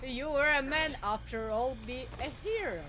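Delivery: stiff, even robotic monotone. Pretend. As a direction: speak like a flat robot, word by word. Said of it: "I have no idea how to do a robot voice".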